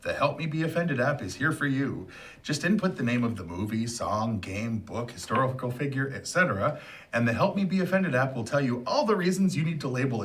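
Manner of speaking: upbeat commercial announcer voice; ad read. Pretend. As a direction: sell it like a cheesy TV ad. Mock app commercial read.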